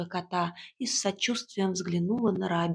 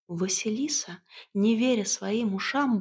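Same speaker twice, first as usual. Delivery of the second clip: usual speaking voice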